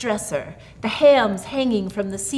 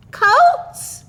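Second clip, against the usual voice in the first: high, frightened quaver; a startled, quivering question; 10 dB louder than usual. A narrator's reading. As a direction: tremble out the word in fear. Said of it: "she quivered".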